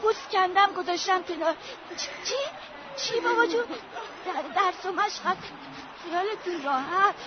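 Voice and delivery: quick hushed rambling, half laughing; grief-stricken girl rambling to dead parents; delirious chatter. Acted. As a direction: talk to the dead as if alive.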